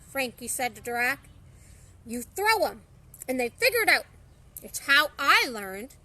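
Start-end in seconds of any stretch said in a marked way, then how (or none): 2.0-5.9 digging in to defend his method; defensive. Acted. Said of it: "Drac said defensively".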